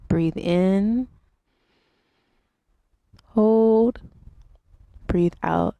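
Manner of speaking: unhurried instructor cues with long pauses; guided yoga meditation. Real, not acted. Yoga teacher leads viewers through breathing and stretches, guided meditation. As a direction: guide them through each breath, leaving space between phrases.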